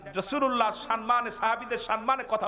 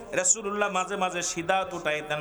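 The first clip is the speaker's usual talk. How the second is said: usual speaking voice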